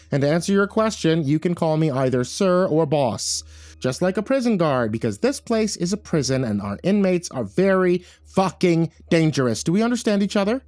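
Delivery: emphatic, no-nonsense lecture; firm put-down. Acted. Caretaker putting the assistant director in place, firm. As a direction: press each point, slowing for the title.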